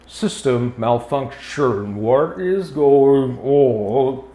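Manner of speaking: robot voice. Acted.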